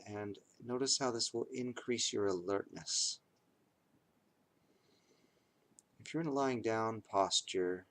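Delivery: measured meditation guide with long pauses; guided meditation. Acted. Teacher guides listeners through noting reactions to pain, guided meditation.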